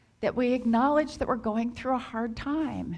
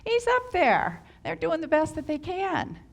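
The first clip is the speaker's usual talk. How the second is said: defending bystander; 6 semitones higher than usual. Retold or imitated. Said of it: "tempted to say something like".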